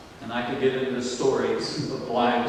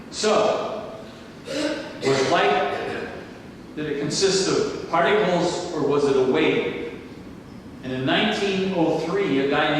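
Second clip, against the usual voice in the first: fervent sermon delivery; preaching; 3 semitones higher than usual. Acted. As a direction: preach it out to the congregation. Preaching at full force.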